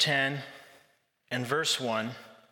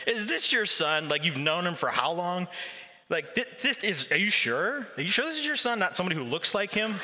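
mock suspicious grilling; 3 semitones higher than usual. Pharisees grilling the parents, hammed-up suspicion. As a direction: needle the parents with doubt. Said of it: "really crazy questions".

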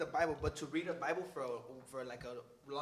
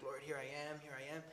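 hushed prayer; 9 dB quieter than usual. Retold or imitated. Acted early-morning prayer.

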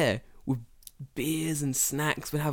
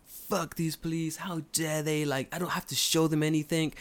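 defiant American mindset; 3 semitones higher, 3 dB quieter than usual. Retold or imitated. Friend imagined scoffing at police, mock indignant. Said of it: "So his mindset was".

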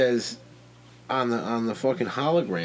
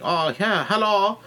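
higher, louder greeting from a shop lady; Chinese counter lady; 8 semitones higher, 3 dB louder than usual. Retold or imitated. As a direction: imitate the lady's high-pitched welcome. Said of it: "the Chinese lady at the counter is like".

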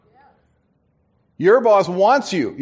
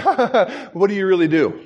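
mocking laugh. Managers laughing at his answer.

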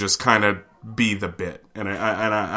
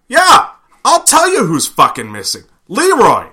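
high, loud put-on voice for Steve, pointed and dramatic; voicing Steve; 12 semitones higher, 8 dB louder than usual. Teller voicing the manager at the table, loud and indignant. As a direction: announce the culprit with mock indignation.

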